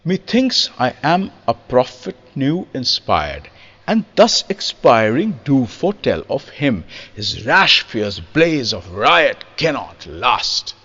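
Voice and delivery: slow, measured Shakespearean recital; deliberate poetic pentameter; iambic verse recitation. Shown as a demonstration. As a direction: recite in rhythm, first syllables unaccented. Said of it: "where the first syllable is unaccented".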